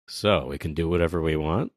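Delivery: Zoro. Acted. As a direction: ask it low, lightly in character. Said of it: "Zoro just says".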